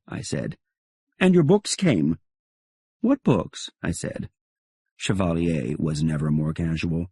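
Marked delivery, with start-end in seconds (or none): 1.2-3.7 much higher, airy question; high feigned surprise. Acted. Narrator pretending not to know about the books, high and airy. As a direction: play dumb, pitched up.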